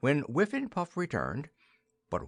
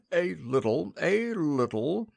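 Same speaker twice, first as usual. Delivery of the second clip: tearful; 7 semitones higher than usual. A narrator's reading. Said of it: "acknowledged the king".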